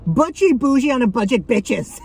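proud sassy slogan, punching butchy. Real, not acted. To her viewers about thrifting, a sassy proud slogan. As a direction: declare it like a motto, butchy stressed. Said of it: "That's what I'm trying to say".

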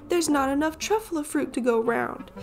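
high, sharp creature voice, snapping; Lorax snapping. Acted. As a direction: scold him in a high Lorax voice. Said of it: "He snapped".

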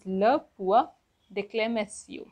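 "le point d'exclamation" in separated chunks; stressed "le", rising "point", pause, then "d'exclamation"; French pronunciation demo. Shown as a demonstration. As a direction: model "le point d'exclamation" carefully. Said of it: "Exclamation mark is pronounced as".

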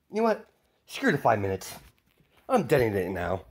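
decide to blow it up on a whim; impatient villain. Acted. Kid villain giving up waiting and detonating, gleeful.

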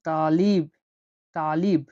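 তালিব with a slightly deep, heavy t. Shown as a demonstration. Teacher models তালিব, t a little deep. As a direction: say তালিব with the t pushed back and weighty. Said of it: "একটু গভীরভাবে বলতে হবে".

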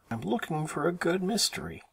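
brother's retort. A narrator's reading. Brother answers sister, acted.

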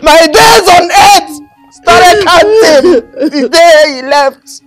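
very slow, tearful wail; slow crying lament. Acted. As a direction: drag each word out through tears. Mourner lamenting.

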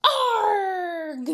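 pirate arg; mock pirate arg. Shown as a demonstration. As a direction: growl like a grumpy pirate. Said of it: "Can you go".

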